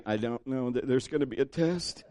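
low, hushed mock worry; imitating uneasy congregation. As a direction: murmur it softly as the reluctant listeners. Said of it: "You're all looking at me".

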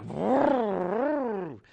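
revving car engine noise; a quick mock engine rev; engine vroom.

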